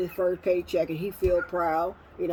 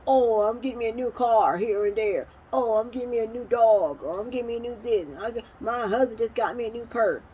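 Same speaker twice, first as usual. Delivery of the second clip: mock bragging; 3 semitones higher than usual. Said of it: "They brag about".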